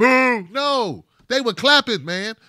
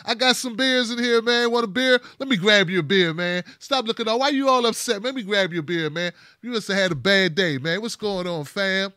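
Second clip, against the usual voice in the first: higher, cheery host voice offering beers; friendly Kevin; 4 semitones higher, 3 dB louder than usual. Retold or imitated. Kevin greeting Tim at his house, higher and cheery. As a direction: play the oblivious buddy, all welcome. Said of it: "Kevin like".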